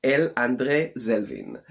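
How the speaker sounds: name said in a playful Hebrew accent. Shown as a demonstration. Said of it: "I can butcher it in a Hebrew accent".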